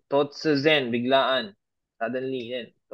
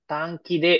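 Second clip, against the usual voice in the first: slow example read; slower than usual. Shown as a demonstration. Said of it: "Okay, dito, minasan".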